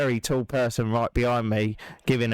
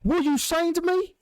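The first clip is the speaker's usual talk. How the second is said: mock the big bloke getting in your face; retold shout. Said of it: "he's shouting in my face".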